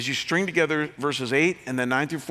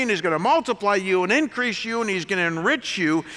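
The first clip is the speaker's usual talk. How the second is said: mock TV preacher; 4 semitones higher than usual. Mocking TV preachers for his congregation, hammed-up preacher voice. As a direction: ham it up like a showy TV preacher. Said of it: "a teaching that essentially goes like this".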